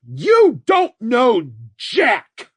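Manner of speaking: high, loud, slow screaming villain; ear-splitting scream. A narrator's reading. Red screaming at the old man, ear-splitting scream. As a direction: scream it in rage. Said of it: "Red's scream was ear-splitting".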